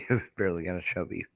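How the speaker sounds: giggling through the repeated punchline; words broken by laughter; laughing. Real, not acted. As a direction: laugh it out in disbelief.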